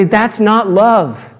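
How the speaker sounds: high, loud, slow mock protest; retelling students yelling at the proposal; imitated students shouting. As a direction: drag out each no like an outraged class. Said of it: "and they say".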